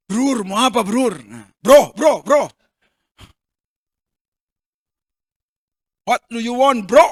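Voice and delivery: slangy casual ask. Acted. Joking slangy Jesus asking.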